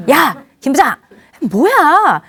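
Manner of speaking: exasperated boss rebuke; hot-tempered boss. Acted. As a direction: chew out your subordinate. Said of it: "우리 상사가 그렇게 나오거든요".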